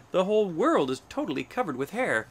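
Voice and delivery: high, loud, swooping lament; despairing wail. A narrator's reading. Hornbill sees hair everywhere, wailing in despair. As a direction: wail it out in storybook dismay. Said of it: "cried with a wail of despair".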